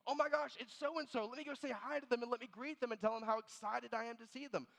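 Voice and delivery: high, quick, eager recognition; playing the eager pastor in the store; excited greeting. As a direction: gush about seeing them, a bit fast. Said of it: "subconsciously name one of you".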